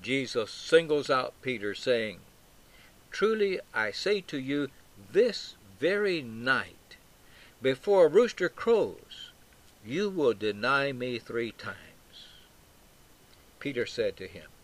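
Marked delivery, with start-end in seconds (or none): 3.1-12.3 weighty pronouncement, slowing on key phrases; emphatic. Acted. Jesus singling out Peter in reply, emphatic. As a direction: state it as a certainty, stressing "this very night". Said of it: "is just as emphatic as Peter's".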